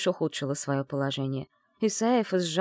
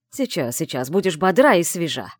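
teasing; 5 dB louder than usual. Acted. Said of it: "приговаривал мой жених".

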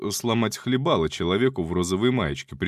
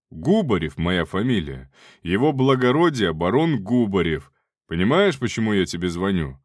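rough male voice; 4 dB louder than usual. Acted. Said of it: "грубый мужской голос".

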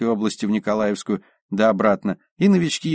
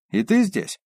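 surprised; 10 semitones higher than usual. Acted. Surprised exclamation in narration.

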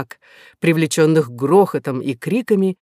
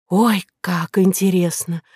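pleading gush; 3 semitones higher than usual. Acted. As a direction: beg him like an excited fan. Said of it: "взмолилась Кора".

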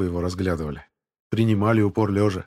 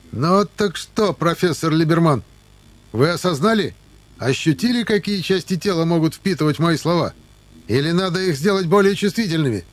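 mock-gentle; 8 semitones higher, 5 dB louder than usual. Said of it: "ласковым голосом спросил".

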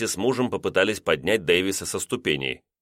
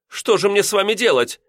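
much higher, despairing; exasperated; 12 semitones higher, 4 dB louder than usual. A narrator's reading. Landlady at her wits' end with lodger, high. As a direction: throw up your hands.

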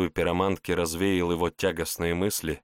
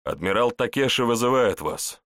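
cold; 5 semitones higher than usual. Acted. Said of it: "холодно произнёс боец".

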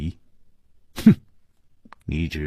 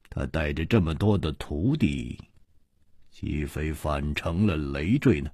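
cold sneer; 2 semitones lower than usual. Acted. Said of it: "冷笑着说".

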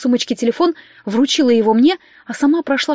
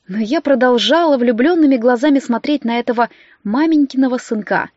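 ordinary delivery, nothing marked

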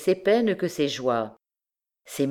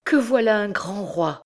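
excited exclamation; 6 semitones higher than usual. A narrator's reading. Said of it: "s'écria Gringoire".

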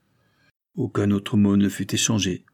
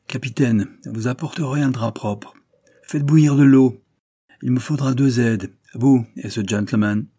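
firm, louder, urgent commands; commanding orders; 3 semitones higher, 6 dB louder than usual. Acted. Surgeon ordering the captain about, brisk and loud. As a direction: take charge of the deck, no time to lose.

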